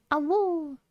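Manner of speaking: high howled awoo; wolf howl. Pretend. Howling like a wolf.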